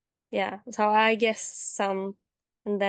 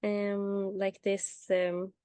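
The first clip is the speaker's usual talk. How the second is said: translating in head. Real, not acted. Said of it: "oh, I don't know the word in English".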